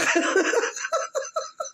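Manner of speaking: high, breathy laugh; real giggles after a tease; laughing fit. Real, not acted. Woman finding the president's English bizarre, laughing.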